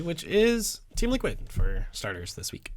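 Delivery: normal talking voice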